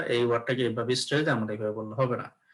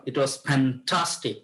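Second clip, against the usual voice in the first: "fantastic" slowly said with stress on TAS; much slower than usual. Shown as a demonstration. Teacher models a stressed answer for students, stress on "fantastic". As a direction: put the weight on the middle of "fantastic". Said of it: "একটু stress দিব".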